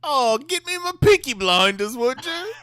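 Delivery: very high, loud British caricature; hammed-up high-pitched British voice; mock British accent. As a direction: squawk it in a silly British accent. Joking imitation of the show's Brits.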